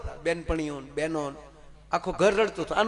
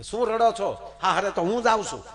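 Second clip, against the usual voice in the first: higher and louder, laughing mockery at the weepers; cheeky scolding bride; 7 semitones higher, 5 dB louder than usual. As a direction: tease the family for crying. Bride scolds her crying family.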